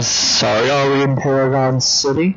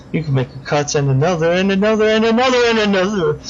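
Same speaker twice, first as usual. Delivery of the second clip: a higher, quick giddy string of cuts; gleeful fast list; 6 semitones higher, faster than usual. Acted. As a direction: rattle it off with relish.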